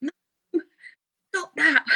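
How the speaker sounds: high-pitched imitation of an embarrassed child; mock child's protest to mum; nine-year-old son. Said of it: "my son, who's nine, often says".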